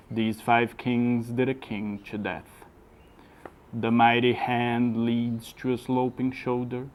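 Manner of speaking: slow, measured verse recitation; poem reading. Shown as a demonstration. Teacher reads the whole poem for a student to copy, slow measured recitation. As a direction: read it line by line, slowly, pausing after each. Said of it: "preste bem atenção na minha pronúncia, na minha entonação".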